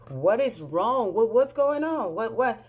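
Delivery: mildly panicked rapid-fire questions; acting out a startled reply on the phone; alarmed questioning. Woken by screaming informant's call.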